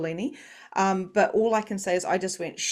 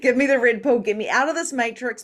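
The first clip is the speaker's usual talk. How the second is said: higher, much louder repeat of the plea; 5 semitones higher, 6 dB louder than usual. Real, not acted. Speaker begging out of the matrix, loud and emphatic. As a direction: belt out the plea after a laugh.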